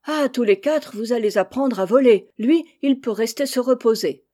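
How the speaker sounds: a father laying down the rule; firm father. Acted. Father sends four chicks to learn flying, loud firm order.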